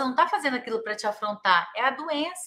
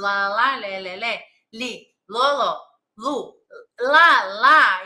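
lightly imitated storytelling in nonsense syllables; imitating intoned babble; 2 semitones lower, 4 dB louder, much slower than usual. Patient tells a whole story, lightly imitated intoned babbling. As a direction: give bare syllables the tune of real talk. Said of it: "com entonação, falando isso".

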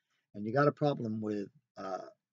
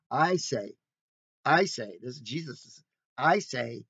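I say, punched louder each time, with authority; stressed I say; 4 dB louder, slower than usual. Shown as a demonstration. Preacher voicing Jesus' authority with I say struck firmly. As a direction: lean hard on I say. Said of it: "I'm gonna say it. I have the authority".

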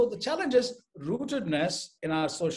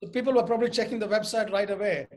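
chuckling through the words; amused, laughing as she explains; light real laughter; laughing while talking; 5 semitones higher, 7 dB louder than usual. Real, not acted. Laughing over audience response.

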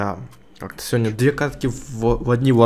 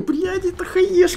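laughing; slower than usual. Real, not acted. Laughing at teammate's play.

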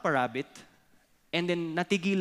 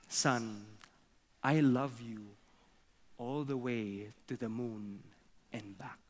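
low, hushed papa rabbit, fading away; tender whisper; 5 semitones lower, 6 dB quieter than usual. Acted. Daddy to his sleeping son, hushed and tender. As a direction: speak softly to a sleeping child, sinking lower. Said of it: "And Daddy whispers".

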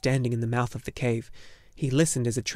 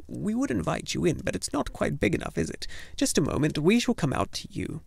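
put-on old gnome woman voice; 5 semitones higher than usual. Urgle speaks to Atreyu.

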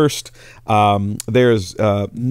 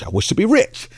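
high excited wish; 10 semitones higher than usual. Acted. Pastor voicing the eager wife's wish, squealed high. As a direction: pitch the repeat way up, eager. Woman repeats her wish.

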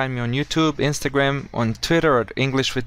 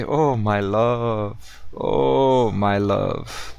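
tender sigh; much slower than usual. Shown as a demonstration. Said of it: "As we say".

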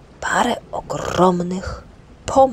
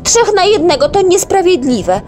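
loud, much higher call; 12 semitones higher, 7 dB louder than usual. Acted. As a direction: call to his mother. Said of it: "zawołał". (wołanie)

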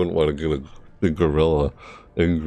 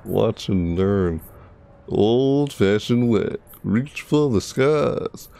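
McCree; 2 semitones higher, slower than usual. Retold or imitated.

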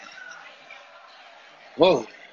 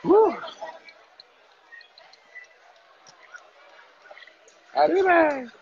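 cheer; slower than usual. Real, not acted. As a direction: whoop it out for the toast. Toasting another shot.

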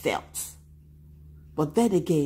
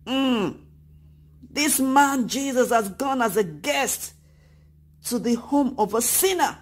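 grumbling; 4 semitones higher than usual. Acted. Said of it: "But the people grumbled".

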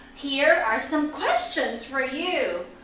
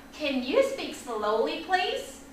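soft, measured polite question, lifting on please; polite request; 2 semitones lower, 6 dB quieter than usual. Acted. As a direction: ask it gently, like a student requesting help. Models the student's polite request.

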